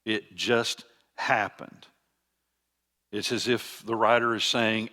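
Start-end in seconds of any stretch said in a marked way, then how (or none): 0.0-1.8 slow, with a gap before "happened"; emphasis on just happened. Shown as a demonstration. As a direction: set "just" and "happened" apart, deliberately. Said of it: "there's emphasis being drawn to this".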